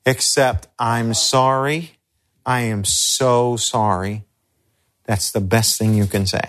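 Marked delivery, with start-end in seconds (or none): 0.8-4.2 slow, gentle condolence; sincere sympathy. Shown as a demonstration. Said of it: "Don't say anything except".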